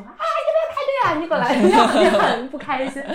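high, loud Beijing auntie voice; shrill-free loud Beijing auntie scolding; Beijing accent. Retold or imitated. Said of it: "有那种大妈和大爷就说".

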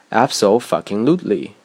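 "abso-fucking-lutely" with the swear wedged in after "abso"; split-word emphasis. Shown as a demonstration. Teacher quoting Hollywood film speech, "abso-fucking-lutely" emphatically split. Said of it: "一个单词确实是可以分开说出来的".

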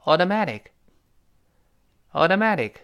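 AUTOMATIC run together, t's softened to d's. Shown as a demonstration. Teacher speeding the drill up for students, t's voiced. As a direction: say "automatic" as "audomadic". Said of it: "我们再快一点".

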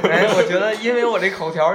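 laughing through the words; chuckling while admitting it. Real, not acted. Laughing at own clumsy speech.

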